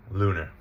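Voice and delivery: "lunar" said LOO-ner; reduced second syllable. Shown as a demonstration. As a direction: weaken the end of "lunar" to a schwa. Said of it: "we're gonna schwa it".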